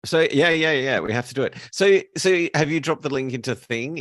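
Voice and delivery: flustered eagerness before going live; excited urgency. Real, not acted. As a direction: push to get things going, keyed up. Hurrying to start the show.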